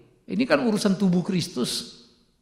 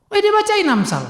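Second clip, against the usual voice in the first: incredulous; 12 semitones higher than usual. Real, not acted. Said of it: "saya pendeta ya kok di dibacain".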